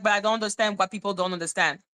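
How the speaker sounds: fast, irritated condescending tone; irritated rant. Retold or imitated. Explaining her annoyance to viewers, fast and condescending. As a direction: rattle it off impatiently. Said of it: "I'm like".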